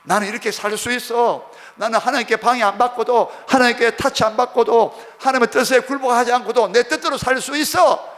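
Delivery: loud claim of independence, pitch building; self-assertive declaration. Acted. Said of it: "자기 주장하는 거".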